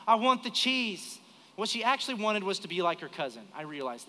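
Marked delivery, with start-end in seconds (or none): 0.1-1.2 higher, drawn-out demand; drawn-out childlike insistence; insistent child. Retold or imitated. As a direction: imitate a kid insisting, slow and higher. Child insisting to her father.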